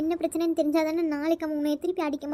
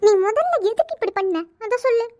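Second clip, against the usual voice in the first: demanding; 3 semitones higher, 5 dB louder than usual. Acted. Sister demands why he fought.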